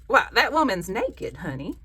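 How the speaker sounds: loud, slow Southern granny; scandalized granny with a stretched Southern accent. Acted. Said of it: "my granny would say".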